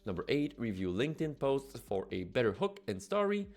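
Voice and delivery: ad read. Acted. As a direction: read it like a punchy product ad. Scripted promo read over music.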